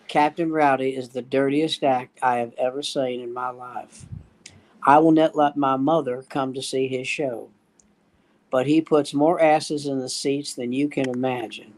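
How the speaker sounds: low, measured club-owner voice; lightly voiced solemn warning; club owner's warning. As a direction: pitch it down, deliberate and grave.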